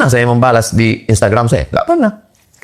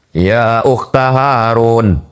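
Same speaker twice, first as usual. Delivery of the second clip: Quran recitation; much slower than usual. Acted. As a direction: recite the verse with a slow melodic line. (tilawah Quran yang lambat dan bernada)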